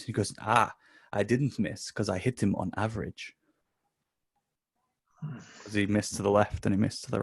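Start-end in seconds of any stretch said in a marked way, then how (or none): 0.4-3.3 put-on German accent. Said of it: "so, the German guy".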